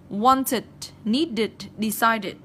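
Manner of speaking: "wanted, needed, decided" with a clear extra id syllable; -ed as a separate syllable. Shown as a demonstration. Teacher showing students the ending, -ed as its own syllable in "wanted, needed, decided". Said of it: "các em học luôn cho cô là chực đực".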